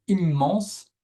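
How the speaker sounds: "immense" with both m's sounded; double M. Shown as a demonstration. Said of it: "on prononce les deux M". (« immense » avec les deux m prononcés)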